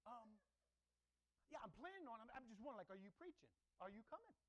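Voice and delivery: dodge, then keep digging; evasive churchgoer. Retold or imitated. Pastor mimics evasive church member.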